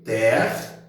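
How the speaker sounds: TER, MI, NO with clear pauses; syllable by syllable. Shown as a demonstration. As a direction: break terminou into three separate syllables, weight on TER. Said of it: "dividindo as sílabas". (terminou separado em sílabas, com pausas)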